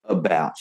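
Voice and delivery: "About" opening on a weak uh; schwa in "About". Shown as a demonstration. Teacher showing English schwa to listeners, "About" starting uh. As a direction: say "About" with an unstressed uh first. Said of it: "we go, uh".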